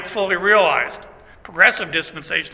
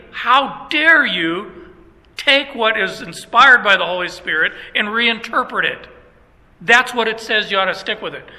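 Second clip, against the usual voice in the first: emphatic rebuke. Retold or imitated. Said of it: "I got emphatic with them".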